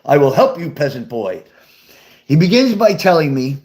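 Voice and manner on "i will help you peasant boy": lightly voiced pompous king; a hint of grand, puffed-up royal pronouncement; swelled-up king. Proud dad grandly answers his son's plea for advice, lightly pompous. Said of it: "his chest kinda swelled up".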